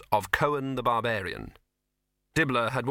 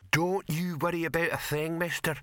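easygoing troll, a touch gruff; friendly troll voice; 7 semitones higher than usual. Acted. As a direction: reassure him like a big troll.

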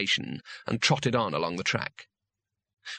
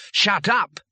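loud, high, sudden shout; shouting someone down; shouted interruption; 7 semitones higher, 6 dB louder than usual. A narrator's reading. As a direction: cut in with a sharp yell. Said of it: "shouted Weems".

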